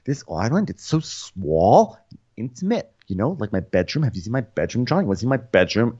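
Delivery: mock flirtation, lightly caricatured; lightly voiced come-on; Ramona. Impersonating Ramona flirting with John.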